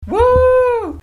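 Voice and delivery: shrill excited whoop; high cheering woo. Pretend. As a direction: whoop like a crowd. Cheering as awards cohost.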